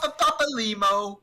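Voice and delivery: loud, high stuttered Pa-pa-pa-pa-papalimo; sing-out mock stammer on the name; playful stutter. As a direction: hammer the first syllable over and over.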